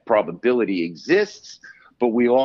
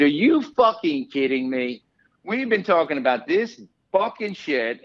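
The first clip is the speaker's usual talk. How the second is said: retold cursing; 5 semitones higher than usual. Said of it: "and I cursed him up".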